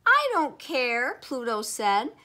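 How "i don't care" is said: slow, loud and high; defiant. A narrator's reading. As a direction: dig in stubbornly, stretching the words. Pluto argues with astronomers.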